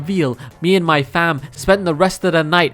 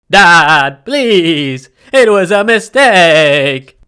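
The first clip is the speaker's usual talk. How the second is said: pleading; 5 dB louder, much slower than usual. Acted. Boy pleading before punishment.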